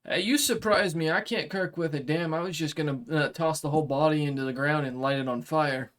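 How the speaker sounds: a blunt samurai making a deal; dragonkin warrior. Acted. GM voices the dragonkin.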